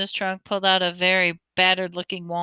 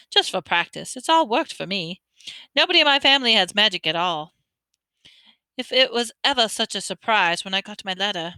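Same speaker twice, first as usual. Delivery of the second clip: put-on bossy girl. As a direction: rattle it off, very sure of herself. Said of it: "a very bossy sort of voice".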